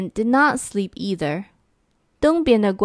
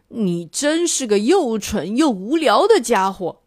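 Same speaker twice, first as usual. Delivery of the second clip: roared insult; 3 semitones higher than usual. Acted. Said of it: "西边的怪物一边吼".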